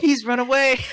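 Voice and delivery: loud, high Southern belle wail; overdone Southern belle lament. Acted. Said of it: "do a Southern belle accent".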